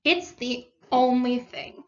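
emphatic exclamation, then slow and earnest; mildly solemn pronouncement. A narrator's reading. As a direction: declare it with slow conviction. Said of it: "said the water rat solemnly".

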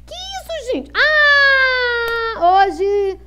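talking through hiccups; hiccup-broken words. Real, not acted. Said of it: "Tô com soluço".

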